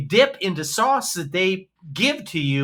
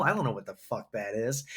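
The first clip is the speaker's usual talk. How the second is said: under-breath mutter; 9 semitones lower, 9 dB quieter than usual. Real, not acted. Muttering about the garlic oil.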